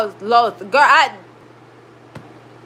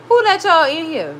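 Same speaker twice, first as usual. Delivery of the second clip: scolding the cats; 2 semitones higher, 3 dB louder than usual. Real, not acted. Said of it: "My bad, y'all. I'm talking to the cats".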